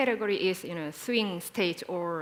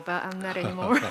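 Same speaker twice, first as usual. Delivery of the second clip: laughing; faster than usual. Real, not acted. Joking about no longer being young.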